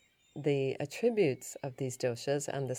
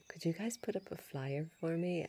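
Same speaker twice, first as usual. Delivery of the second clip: softer, hesitant asking; timid request; 2 semitones higher, 6 dB quieter than usual. Retold or imitated. Asking the health shop staff to put up a flyer, timidly and softly. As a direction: ask shyly, not wanting to impose. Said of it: "said timidly".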